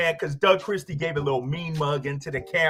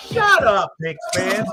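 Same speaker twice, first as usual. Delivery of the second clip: fired-up shout; 4 dB louder, slower than usual. Real, not acted. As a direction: tell the rival fans off, loud. Host shouting at rival fans.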